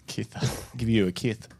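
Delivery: "kith" said with a lisp, th for s; "Give you a kith" lisped like a kisser; mock lisp. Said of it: "a kisser with a lisp".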